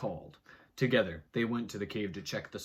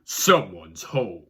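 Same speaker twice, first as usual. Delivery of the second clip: creepy reveal; 4 semitones lower, 12 dB louder, much slower than usual. Acted.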